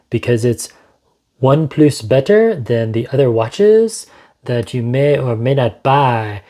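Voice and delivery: mock French accent, barely there; a joking French lilt over the words; a hint of a French accent; bad French accent. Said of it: "That's my horrible French accent".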